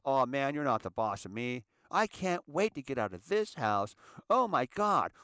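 mock a teen who wants out; rebellious teen.

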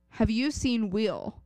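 put-on slow Southern-accented question; imitated Southern accent. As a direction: ask it with a drawn-out Southern accent. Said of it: "She is from the South".

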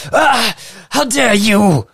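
high, slow outraged "how dare you"; indignant crowd voice. Acted. GM voices angry crowd member.

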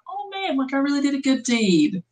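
smug self-quote. Retold or imitated. Imitating self after good deed.

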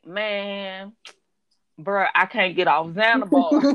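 lightly imitated slow talker, pausing after "Man"; a hint of a slow-talking man; slow-talking client. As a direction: mimic a drawling client, lightly. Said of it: "like, a slow talking person".

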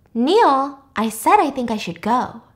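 firm and clear-headed, no hint of drunkenness; clear, sober voice. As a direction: drop the drunk act, say it plainly. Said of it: "in a very clear, sober voice".

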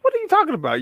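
high incredulous question; baffled clerk. Pretend. Bank clerk hearing a man buy the building, stunned. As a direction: act stunned by the request. Bank worker reacting in skit.

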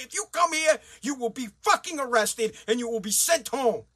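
emphatic, indignant dismissal; pissed-off tirade. Pretend. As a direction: send them packing, mock-official and angry. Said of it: "that's how pissed I would be".

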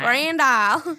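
imitated Louisiana twang; Southern twang. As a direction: say it back with a teasing Southern twang. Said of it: "That twang".

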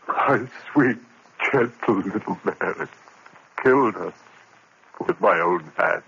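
stunned, empty remorse; a touch of numb grief; numb confession. Acted. Narrator numb after killing.

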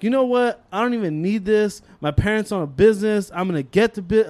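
retold with rising indignation; defiant retort. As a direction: act out a student talking back to a teacher. Student's defiant retort to teacher.

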